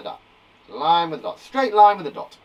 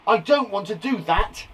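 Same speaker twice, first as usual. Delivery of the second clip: "I don't want to do that" said with firm emphasis; emphatic refusal; 3 semitones higher, 4 dB louder than usual. Shown as a demonstration. Teacher showing how exclamation adds emphasis, emphatic refusal. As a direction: hammer home "don't want to do that". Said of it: "To add emphasis".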